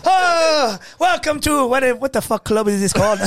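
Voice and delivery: mock club host. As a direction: hype up the crowd like a dive-bar host.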